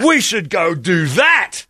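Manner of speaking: high shouting puppy voice, slow on the last line; excited talking dog. Retold or imitated. Imitating a dog answering its owner, high and overjoyed. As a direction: bark it out like a thrilled dog. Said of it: "The dog would be like".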